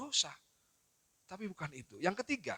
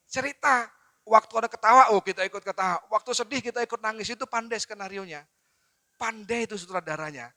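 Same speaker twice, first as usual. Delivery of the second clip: usual speaking voice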